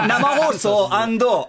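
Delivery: loud, helpless laughing speech; laughing through words. Real, not acted. Host teased about the missed appearance, laughing. Laughing over why guest didn't come.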